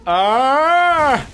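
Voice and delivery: loud, rising drawn-out "aah"; long loud yell. Real, not acted. Player crying out mid-game, long loud yell. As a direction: let out a long swelling yell. Sudden cry during play.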